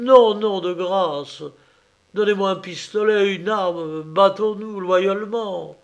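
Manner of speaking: high, loud, frantic begging; desperate pleading. Acted. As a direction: plead for your life in panic. Condemned man begs for his life.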